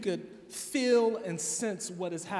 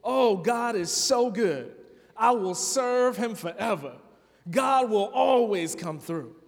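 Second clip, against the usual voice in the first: mock joyful praise; 3 semitones higher than usual. Shown as a demonstration. Pastor demonstrating a psalm of orientation, lightly joyful. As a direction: sound like a content believer thanking God. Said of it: "Psalms of orientation go a little bit like this".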